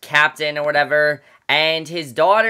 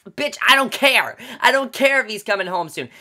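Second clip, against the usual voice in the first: mock outburst; 4 semitones higher, 3 dB louder than usual. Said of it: "I'm like".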